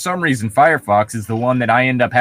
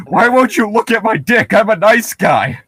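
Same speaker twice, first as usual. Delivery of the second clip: higher, whiny mock of an entitled nice guy; 6 semitones higher, 3 dB louder than usual. Mocking a creepy nice guy in a higher, whiny voice. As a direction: sneer it as the creep would.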